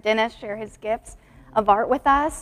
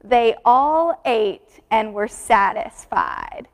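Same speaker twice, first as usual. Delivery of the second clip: put-on slow, deliberate recital with the kids; slow group recitation; much slower than usual. Shown as a demonstration. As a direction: say it slowly for children to echo. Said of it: "Can you repeat that with me?".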